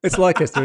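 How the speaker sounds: "Leicester" said as LIE-kess-ter; mispronounced Leicester. Real, not acted. Guest insists on his guess at the city, mispronounced "Leicester". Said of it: "What did you say it was called again".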